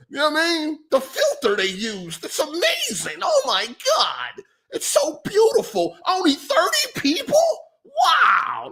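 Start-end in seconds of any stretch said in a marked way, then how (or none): 2.2-8.7 much higher, slow, breathless mock wonder; hammed-up rapture, pitched way up, ending in a laughing cry; mock gushing fan. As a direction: coo over it like a starstruck fan, laughing at them. Mocking fans of pretty graphics.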